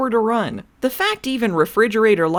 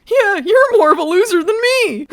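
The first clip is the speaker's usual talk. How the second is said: loud, high schoolyard taunt; mocking taunt; 4 semitones higher, 5 dB louder than usual. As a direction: jeer at him like a bully. Taunting the hologram.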